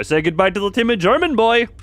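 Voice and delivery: high, loud theatrical send-off; mock dramatic farewell. Streamer deleting his own character with a hammed-up farewell. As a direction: announce his doom with glee.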